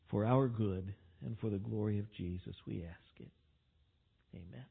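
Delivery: low, hushed closing prayer. Real, not acted. Preacher asks God's blessing before reading, praying quietly. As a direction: bring the prayer softly down to amen.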